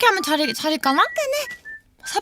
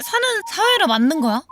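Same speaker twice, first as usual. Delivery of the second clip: exasperated rant; 6 semitones higher than usual. Real, not acted. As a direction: whine in protest at having to socialise. Rants about hating society.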